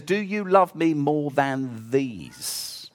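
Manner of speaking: soft, slow; quiet searching question; gentle question. Acted. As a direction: ask it slowly and tenderly. Jesus' question read slowly.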